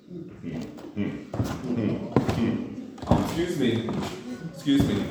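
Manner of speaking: mock huffy patient, hmm-ing then curt; sulky patient pointing out the late time; impatient grumble.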